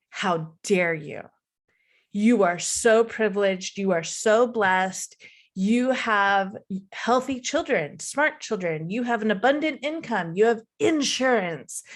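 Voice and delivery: lightly scold, weighing each item; scolding inner voice. Retold or imitated. Inner voice shaming her for hating her life, mildly scolding. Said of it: "there was just this constant voice of".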